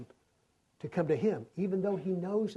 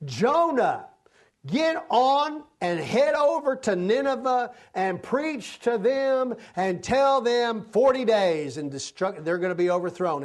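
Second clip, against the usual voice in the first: God's command; 5 semitones higher, 3 dB louder than usual. Acted. God voiced commanding Jonah.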